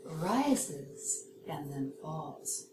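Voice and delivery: slow, RISES lifting, FALLS sinking low; rise then fall. Shown as a demonstration. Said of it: "whereas rising intonation".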